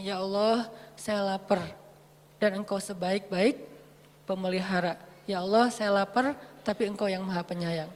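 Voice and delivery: softly confiding plea to God; quiet humble prayer. Acted. Hungry Musa complaining to Allah, quiet prayer. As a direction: pray softly, with small pauses.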